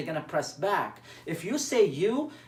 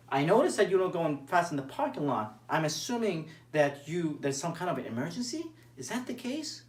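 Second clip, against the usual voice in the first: concerned tone. Shown as a demonstration. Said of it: "it's how you say it".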